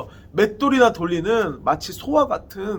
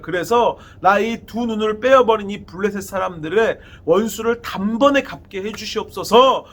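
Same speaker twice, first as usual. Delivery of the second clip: crying out in prayer. Retold or imitated. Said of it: "여호와께 이때 부르짖습니다".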